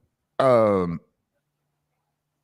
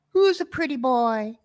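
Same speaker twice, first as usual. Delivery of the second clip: parrot talk; 13 semitones higher than usual. Retold or imitated. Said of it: "I was thinking".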